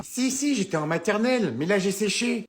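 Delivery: put-on boasting kid who skipped school; kid brother voice. Kindergarten kid brother Arthur talking.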